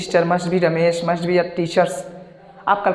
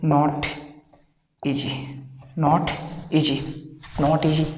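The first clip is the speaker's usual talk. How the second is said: slow drill; 3 semitones lower, 5 dB quieter, much slower than usual. Shown as a demonstration. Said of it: "तो क्या कह सकते हो".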